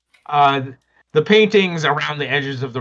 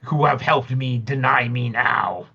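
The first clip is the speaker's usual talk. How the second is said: demon voice; slower than usual. Acted.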